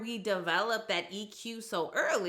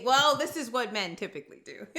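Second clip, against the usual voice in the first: laughing; 4 dB louder, faster than usual. Real, not acted. Laughing at her own joke.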